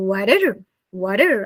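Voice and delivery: American water with flapped t and r; American pronunciation of water; American accent. Shown as a demonstration. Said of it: "they will say the word".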